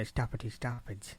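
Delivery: "stuffity stuffage" with open southern English vowels; southern English accent. Shown as a demonstration. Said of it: "like, down south".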